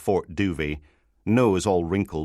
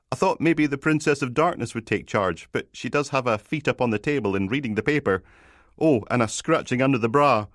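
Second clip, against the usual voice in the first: high-pitched, chattering report; gossiping constable; 7 semitones higher than usual. Acted. Constable tells sergeant about a colleague, high gossipy chatter. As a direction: prattle on in a higher voice.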